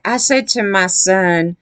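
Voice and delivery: slow, lightly mocking imitation; lightly voiced construction guy, slowed down; imitating construction guy. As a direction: draw the words out as a mock quote. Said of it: "And he's like".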